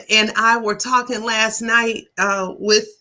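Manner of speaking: talking around a hair in the mouth; words caught on a stray hair. Real, not acted. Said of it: "I had this hair in my mouth".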